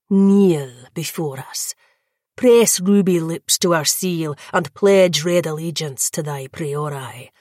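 lightly voiced lord demanding allegiance; commanding vampire lord. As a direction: lord it over the captive, unhurried. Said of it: "Nikita gestured".

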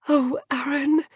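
high, pitying sigh. A narrator's reading. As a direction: sigh his name in sorrow for him. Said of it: "Dior sighed".

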